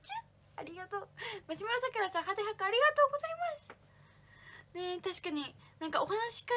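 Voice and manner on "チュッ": soft kissing smack into the mic; a quiet air kiss; blown kiss. Pretend. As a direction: blow a kiss to a fan. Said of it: "マサパパに投げキッス".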